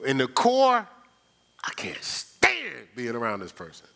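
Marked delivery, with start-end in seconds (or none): 1.6-3.9 low breathy whisper, slower. Real, not acted. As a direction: hush it like a secret aside. Whispered aside about someone.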